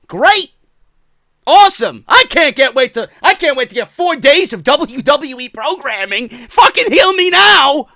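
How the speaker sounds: loud, high hammed-up enthusiasm; mock excitement. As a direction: shout it with fake, over-the-top glee. Sarcastic rant about four days of WWE.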